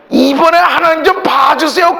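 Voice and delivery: "이번에 하나님 좀 봐주세요" called out loud, rising on "좀"; loud prayer. Retold or imitated. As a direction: cry it out to God. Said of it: "큰 소리로 냈다는 거죠".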